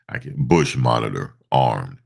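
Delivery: lightly voiced robot hero; a hint of a big robot leader; Optimus Prime voice. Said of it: "In my Optimus Prime voice".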